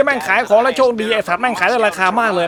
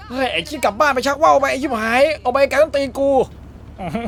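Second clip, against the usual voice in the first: mock angry yell; 5 semitones higher than usual. Real, not acted. Yelling at annoying driver.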